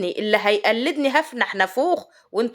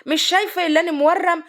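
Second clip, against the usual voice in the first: higher-pitched grumbling husband with a swollen mouth; 6 semitones higher than usual. Retold or imitated. Husband tells wife he cannot talk, imitated swollen-mouth voice. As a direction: imitate him protesting through a crooked mouth. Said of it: "وانا بق ملوح يا وليه".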